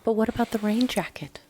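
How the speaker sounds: breathy mock owner question; a hushed, sarcastic what-about; mocking whisper.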